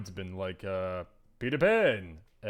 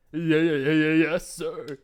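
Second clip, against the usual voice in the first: quick, raised, loud acknowledgement; hurried yeses tumbling out; eager underling; 4 semitones higher, 5 dB louder than usual. Acted. Pupil told to keep focus, hurried assent. Pupil answers instructor's scolding.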